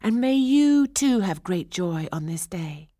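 high-pitched, joyful princess; joyful cry. A narrator's reading. Princess wishes the old woman joy, crying out happily. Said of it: "she cried".

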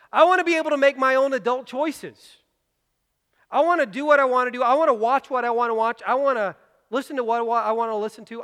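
loud, high, defiant whine; stubborn objection. Pretend. Preacher voicing a listener who refuses accountability, defiant and loud. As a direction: insist on your own way.

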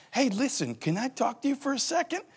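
soft, coaxing aside; gentle request. Retold or imitated. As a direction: ease them into a talk. Pulling someone aside gently.

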